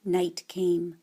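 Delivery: whispered softly; hushed. A narrator's reading. Narrator setting the silent night scene, whispered. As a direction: breathe it out in a hush.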